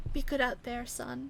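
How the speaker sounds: quietly holding back emotion; a touch of quiver. Acted. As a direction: mom gently tearful saying goodbye. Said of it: "a little bit of a quiver in her voice".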